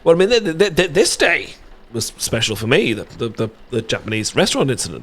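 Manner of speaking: tripping over the first word, flustered; stammering. Real, not acted. Confessing to his friend, real nervous stammer. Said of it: "when I start trembling over words".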